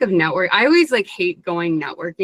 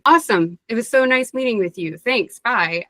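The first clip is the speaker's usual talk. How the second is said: lightly acted upbeat, higher-pitched sign-off; breezy goodbye; 4 semitones higher than usual. Someone wrapping up a nice meeting, breezily upbeat. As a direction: toss off a cheery mock farewell.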